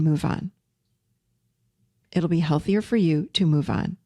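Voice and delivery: steady, settled and kind; calm presence. Acted. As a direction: state it gently, with spaces between statements. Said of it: "I'm gonna come back to her with presence and say".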